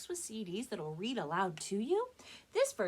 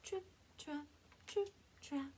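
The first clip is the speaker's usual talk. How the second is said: light high trip trap; 8 semitones higher, 4 dB quieter than usual. Acted. Smallest goat crossing bridge.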